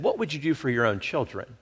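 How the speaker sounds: soft, probing question; little inner voice. Retold or imitated. God's voice answering a father's guilt, softly voiced. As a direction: ask quietly, like a prompting within. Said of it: "the voice kinda kicked in and said".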